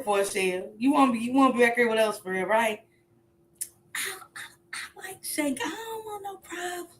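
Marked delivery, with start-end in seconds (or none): 3.9-6.9 timid mock voice. Timid voice in church bit.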